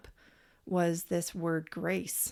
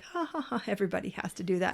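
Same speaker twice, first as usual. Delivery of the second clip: nonchalant laugh; faster than usual. Retold or imitated. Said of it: "she laughs, you know, kinda nonchalantly".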